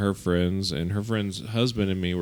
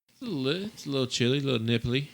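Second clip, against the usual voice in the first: higher, playful shivery voice; high-pitched quip; 5 semitones higher, 4 dB quieter, faster than usual. Retold or imitated. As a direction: squeak it out as if chilly. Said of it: "and I was like".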